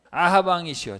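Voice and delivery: loud, high call to the king; booming prophet address; prophet's shout. Acted. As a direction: cry out to the king in rebuke.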